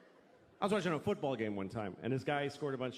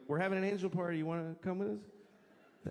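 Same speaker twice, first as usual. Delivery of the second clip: light angel voice; 4 semitones higher than usual. Acted. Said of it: "the angels are like".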